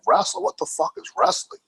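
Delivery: high, incredulous mock-baffled voice; baffled disbelief. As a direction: play the clueless kid hearing "wrestle" for the first time. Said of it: "and then I was like".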